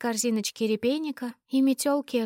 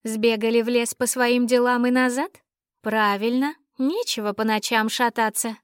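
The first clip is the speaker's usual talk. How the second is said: put-on tipsy, louder drunken rambling; drunk with hiccups; 4 dB louder than usual. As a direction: slur it like a tipsy girl. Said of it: "Мои пьяные вопли".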